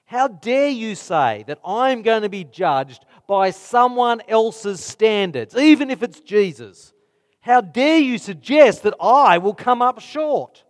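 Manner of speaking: an offended skeptic snapping back at the preacher; indignant objector. Retold or imitated. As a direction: push back with mock offence. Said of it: "they say".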